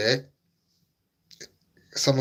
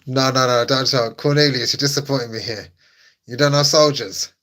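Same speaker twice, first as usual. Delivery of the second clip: mock outrage; 5 dB louder than usual.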